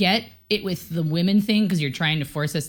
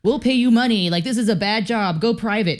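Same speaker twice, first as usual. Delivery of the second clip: higher, louder salesman pitch; mock sales pitch; 5 semitones higher, 4 dB louder than usual. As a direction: sell them on leaving. Voicing the recruitment pitch.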